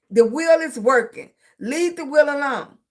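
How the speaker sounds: firm, spaced-out mock scolding; imitated insistent teacher. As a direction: lightly act a teacher ending the argument. Teachers insisting, in acted quote.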